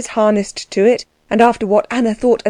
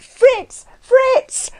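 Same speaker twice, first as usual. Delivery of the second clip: much higher call across the yard. A narrator's reading. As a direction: shout for the coachman in the dark. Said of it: "she began to call".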